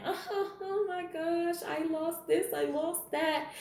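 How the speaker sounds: high, slow fake whimper; hammed-up crying thief; mock crying thief. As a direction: whine it like a thief faking tears. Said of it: "a thief is on the corner crying".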